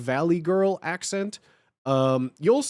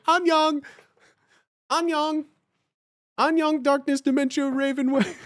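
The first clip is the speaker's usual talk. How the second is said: much higher, sing-song mock Korean greeting; Lady Rainicorn voice; 9 semitones higher than usual. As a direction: chirp it like a cute cartoon unicorn. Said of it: "Lady Rainicorn".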